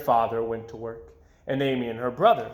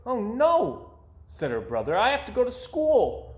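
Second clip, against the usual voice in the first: brother voice; 9 semitones higher than usual. A narrator's reading.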